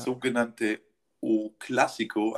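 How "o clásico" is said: slow, mock Portuguese accent on the name; a playful, half-hearted Portuguese accent. Shown as a demonstration. Podcaster naming the big derby, in a mock Portuguese accent. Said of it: "also mit meinem portugiesischen Akzent".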